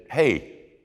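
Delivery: a lightly voiced man begging God for reasons; giddy Gideon. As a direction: Gideon pressing God to explain his love. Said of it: "And then he said".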